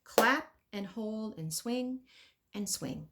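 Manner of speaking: stretched, slow words; slow drawn-out guidance. Shown as a demonstration. Teacher coaching kids to hold the beat, slow. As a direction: stretch it like the held note. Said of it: "make sure ... you're holding".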